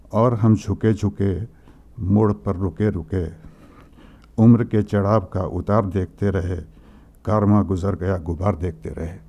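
rapid recital of remembered verse; poem recitation. Acted. Grieving friend quotes a poem to the group, fast recital. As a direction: rush through the Hindi couplets from memory.

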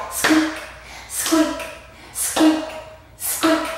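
high little squeaks on a beat; mouse squeaks. Shown as a demonstration. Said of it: "It can sound like this".

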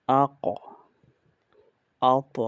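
আক, আত with a heavy, loud echoed final consonant; upward articulation. Shown as a demonstration. Teacher models the two upper letters, echoing upward bounce. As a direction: bounce the last sound of আক and আত upward. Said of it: "দুইটা উপরের দিকে উচ্চারণ হয়".

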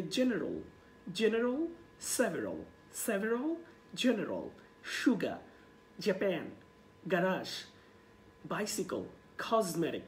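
word list with pauses for repetition, "সুগা" as SHU-ga; pronunciation drill. Shown as a demonstration. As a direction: model each word separately, "জাপান" as je-PAEN. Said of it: "আপনি আমার সাথে এইভাবে প্র্যাকটিসটা করতে পারেন".

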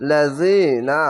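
লাজিনা with a measured long i before "na"; one-alif stretch. Shown as a demonstration. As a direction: draw out the "zi" of লাজিনা. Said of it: "এক আলিফ টেনে পড়বেন".

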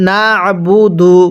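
slow না'বুদু, squeezed after না; pressed ayn. Shown as a demonstration. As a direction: press the throat sound in না'বুদু on a level tone. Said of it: "আইনটা চাপ দিয়ে পড়ব".

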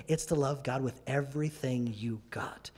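hushed and intimate; whispered conviction; intense whisper. Acted. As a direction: whisper it, with everything you got. Emphatic point whispered.

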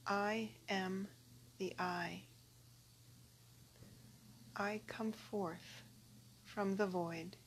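calm recitation with long pauses; prayer reading. Acted. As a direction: read it reverently, pausing after each phrase. Reads a translated prayer.

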